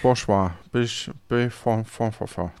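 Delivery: mock the stammering character, trailing off; lightly voiced stammerer, repeating syllables; imitating speech impediment. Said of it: "Sprachfehler machen und hab jetzt mal die letzte Silbe wiederholt".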